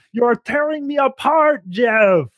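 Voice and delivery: high-pitched mock anguished cry; melodramatic impression. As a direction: wail it like a bad melodrama actor. Mimicking melodramatic interviewee pleading with host.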